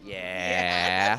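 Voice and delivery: a coy laughing yeah. Real, not acted. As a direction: laugh it out, giving nothing away. Teased about a new season.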